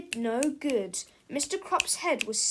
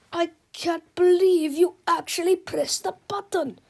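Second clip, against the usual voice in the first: disbelieving shout; 6 semitones higher, 7 dB louder than usual. Acted.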